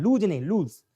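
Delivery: first लूज with j, second लूज with s; लूज: j wrong, s right; wrong then right. Shown as a demonstration. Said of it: "ये लूज word को लेकर आता है".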